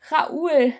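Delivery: a small broken plea; whimpering. Acted. Rosa whimpering Raoul's name as he leaves. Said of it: "wimmerte Rosa".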